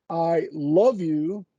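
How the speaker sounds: "love" leaned on, slow and rising; weight on "love" in "I love you"; stress on love. Shown as a demonstration. Explaining emphasis to a colleague, stress on "love". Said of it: "the way you put emphasis on".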